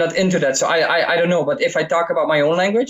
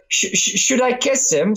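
high, breathless mock valley girl; valley girl asking; 8 semitones higher than usual. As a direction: stammer out the question like a giddy girl. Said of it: "I talk like".

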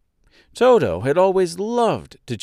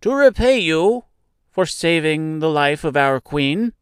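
big mouse character voice; 5 semitones higher than usual. Acted. Mouse offers to repay the queen's rescuer, high mouse voice. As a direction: ask earnestly as a grateful mouse.

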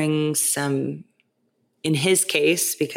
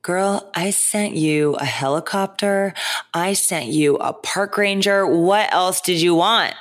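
teasing, drawn out and higher; playful God voice; 4 semitones higher than usual. Acted. God's voice joking about rescue.

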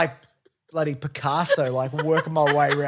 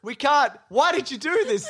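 retold panic; 6 semitones higher than usual. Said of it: "I'm like".

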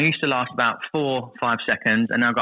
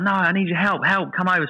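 calling for help; 6 semitones higher than usual. Retold or imitated. Stranded on rock, waving at dinghy.

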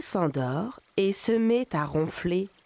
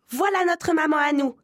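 high, louder happy cry; kids cheering; 8 semitones higher, 5 dB louder than usual. A narrator's reading. Goat kids welcome the fake mother, high excited cry. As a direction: shout with relief like little kids. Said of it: "crient les biquets".

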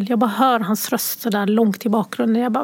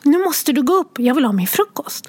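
put-on higher child voice urging; insistent little girl; 3 semitones higher than usual. Mother imitating her daughter telling her to get up, higher child voice. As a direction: push mamma out of bed like a five-year-old. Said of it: "säger hon så här".

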